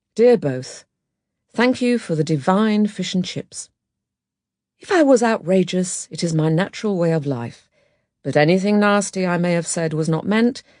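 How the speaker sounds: ordinary delivery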